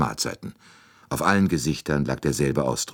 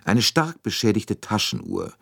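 höher und getragen, förmliche Rede; feierliche Ansprache; 3 semitones higher than usual. A narrator's reading. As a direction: sich räuspern und feierlich vortragen. Poirot addresses all passengers. (Poirot spricht vor allen Passagieren, feierlich und förmlich)

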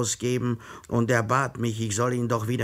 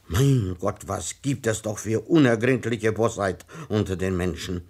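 bitter self-pity. Acted. A clerk lamenting to himself about human malice, mildly worked up. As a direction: work yourself up over the world's ingratitude. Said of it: "bedrückt".

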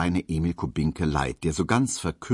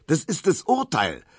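eager excitement; 5 semitones higher, 3 dB louder than usual. Acted. Barber eager to see the verdict.

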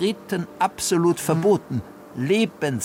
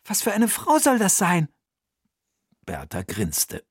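higher, lively aunt puzzling; raised character voice solving a riddle; Bertha's voice; 6 semitones higher than usual. Acted.

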